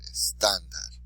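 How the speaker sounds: "Estándar" with TÁN stressed; stress on the accented syllable. Shown as a demonstration. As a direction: model "Estándar", leaning on the middle syllable. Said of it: "tells us to stress the word there".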